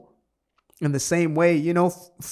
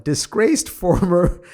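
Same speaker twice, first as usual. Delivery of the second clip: laughing; 4 semitones higher, 5 dB louder, slower than usual. Real, not acted. Rereads phrase, laughing mid-word.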